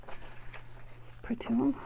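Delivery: slow, soft whispered aside; whispering. Real, not acted. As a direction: murmur it to yourself. Muttered while trimming.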